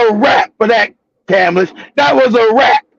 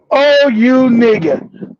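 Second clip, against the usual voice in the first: slow disdain; much slower than usual. Retold or imitated. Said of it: "she looked at me like".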